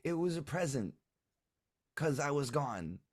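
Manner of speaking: put-on high, urgent little-kid denial; protesting child. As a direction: deny it fast in a small child's voice. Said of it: "and he goes".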